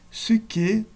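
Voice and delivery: "Suike" stressed on the last syllable, KE; final-syllable stress. Shown as a demonstration. Teacher showing circumflex examples, "Suike" stressed on KE. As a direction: put the weight on KE in "Suike". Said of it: "Na última sílaba".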